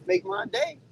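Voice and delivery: high, rising taunting dare. Real, not acted. Trucker dares another driver, high mocking taunt. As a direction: bait him, voice up high.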